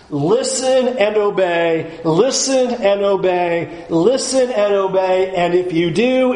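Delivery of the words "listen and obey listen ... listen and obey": "listen and obey" drawn out, with weight on "listen"; repeated emphasis. Shown as a demonstration. Preacher hammering home the two repeated commands, "listen and obey" in measured emphasis. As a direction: lean firmly on "listen" in each "listen and obey". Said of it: "the two repeated emphasis".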